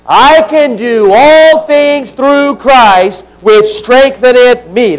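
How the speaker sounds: slow, deliberate recitation together; slow group recitation. Shown as a demonstration. Pastor leading congregation, slow unison recitation. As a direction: lead the room through it slowly. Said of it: "Ready? Begin".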